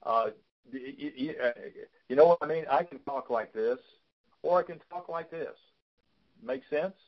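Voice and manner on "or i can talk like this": a touch higher, livelier voice; higher pitch. Shown as a demonstration. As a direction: voice lifted a bit higher for energy. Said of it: "a little higher pitch".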